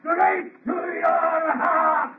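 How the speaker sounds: monster shouting his threat; vengeful shout. Acted. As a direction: shout the revenge at him. Monster taunting Frankenstein.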